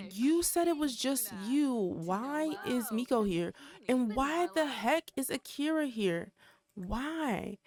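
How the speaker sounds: mildly annoyed demands for an explanation; pissed. Acted. Nikki confronts Darla about the others being here, pissed. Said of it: "look, she's pissed".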